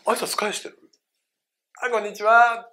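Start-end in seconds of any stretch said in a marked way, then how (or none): 1.8-2.7 acted polite reply, pitched up; customer greeting back. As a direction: answer the clerk's greeting cheerily. Acting customer returning clerk's greeting.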